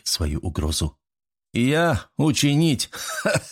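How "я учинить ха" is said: scornful, slow, then a breathy laugh; mocking laugh. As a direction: laugh it off with contempt. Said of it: "Зуам рассмеялся".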